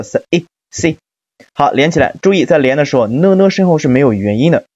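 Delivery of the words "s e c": "s e c" as separate sounds blending into "see"; suffix sounded out. Shown as a demonstration. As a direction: sound out "s e c" piece by piece. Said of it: "后缀读作".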